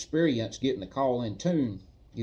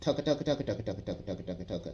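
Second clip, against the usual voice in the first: "tucka" repeated as fast as possible, soft; 3 semitones lower, 6 dB quieter than usual. Speaker demonstrates a turkey gobble by repeating one word, as fast as possible. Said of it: "say it fast as I can say it again and again".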